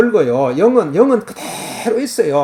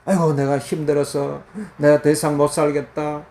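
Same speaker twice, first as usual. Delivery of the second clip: weary sigh; 5 semitones lower, 4 dB quieter than usual. Retold or imitated. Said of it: "이런 소리가 나오는 거예요".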